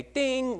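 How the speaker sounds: high ringing ding; imitated bell ding. Teller marking a sudden realization, bell-like ding. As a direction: sing out a little bell.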